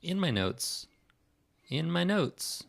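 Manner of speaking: high-pitched repeated echo; comic echo. Real, not acted. Comic echo of own words.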